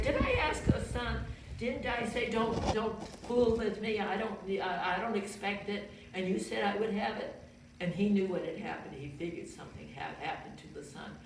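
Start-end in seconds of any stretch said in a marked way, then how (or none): 0.0-7.3 higher, reproachful mother's voice; a grieving mother scolding the prophet. Retold or imitated. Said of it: "she kind of scolded Elijah".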